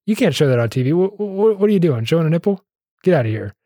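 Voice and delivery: upset censor. Retold or imitated. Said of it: "the censor is upset".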